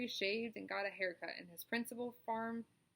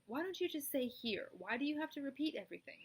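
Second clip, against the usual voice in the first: higher, peeved questioning; irritated spider; 6 semitones higher than usual. Acted. Charlotte scolds the gander for repeating, peeved. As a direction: scold the gander with weary impatience.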